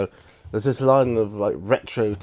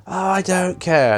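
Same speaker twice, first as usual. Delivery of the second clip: put-on high, louder huff of a spoilt boy; petulant brat; 9 semitones higher, 6 dB louder than usual. Dudley brushing off his father, high petulant huff. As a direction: toss it off like a sulking child.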